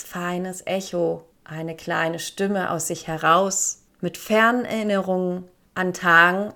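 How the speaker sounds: calm storytelling voice; story narration. Acted. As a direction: read it like a gentle tale. Reads a short story aloud.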